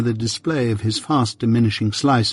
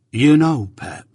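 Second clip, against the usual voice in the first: solemn; 4 semitones higher, slower than usual. A narrator's reading. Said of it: "said Joe solemnly".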